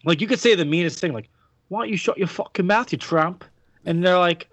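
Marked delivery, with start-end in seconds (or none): 1.7-3.4 put-on British accent. Host showing mean words sound nice, put-on British accent. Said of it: "anything you could say in an accent".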